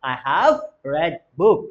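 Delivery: "read" said like "red", drawn out slowly; slow teacher demo, "read" with a short e; past-tense pronunciation. Shown as a demonstration. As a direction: model it slowly, "read" rhyming with "bed". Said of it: "pronunciation would be changed".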